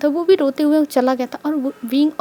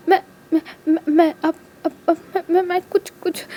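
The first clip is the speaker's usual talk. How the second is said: रोते हुए, रुक-रुक के हकलाना; रुंधे गले से शब्द अटकाओ; टूटते हुए रोते शब्द; 3 semitones higher than usual. A narrator's reading. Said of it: "रोते हुए कहता है". (रोती हुई आवाज़ में अटक-अटक कर)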